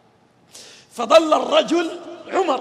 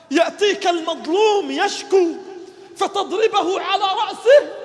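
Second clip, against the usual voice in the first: preaching at full force. Acted. Preacher voicing Umar rebuking himself, impassioned. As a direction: drive each line home like a pulpit cry.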